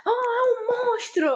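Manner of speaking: high startled cry; Luca's voice. Retold or imitated. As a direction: gasp it out high. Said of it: "o Luca falou assim".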